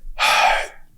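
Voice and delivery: long breathy sigh; heavy sigh. Real, not acted. Man asked about his prison time, heavy sigh. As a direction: let out a breath before answering.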